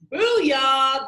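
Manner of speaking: loud, punchy cheer of triumph; excited cheer. Acted. Boy cheering at the spinner, loud and excited. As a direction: shout it like you just won. Miguel's spin lands, cheering.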